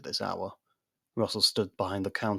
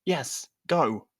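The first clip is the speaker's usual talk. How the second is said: shout; 6 semitones higher, 4 dB louder than usual. Acted. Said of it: "Quinn shouted".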